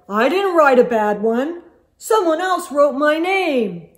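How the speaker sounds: put-on a boy insisting it wasn't him; protesting boy. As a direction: protest your innocence. Boy denying accusation.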